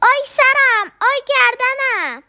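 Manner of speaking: loud cry of pain. A narrator's reading. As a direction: wail about the aching head. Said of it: "داد زد".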